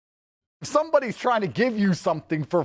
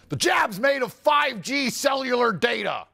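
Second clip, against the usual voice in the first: mock stupid believer; 5 semitones higher than usual. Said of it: "who sat there and said".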